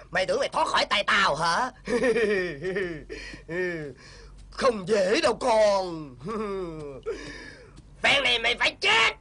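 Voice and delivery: sneering menace between wicked laughs; villain gloating threat. Acted. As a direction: taunt the trapped victim. Kẻ ác dọa giết. (kẻ ác đe dọa nạn nhân, giọng khinh miệt)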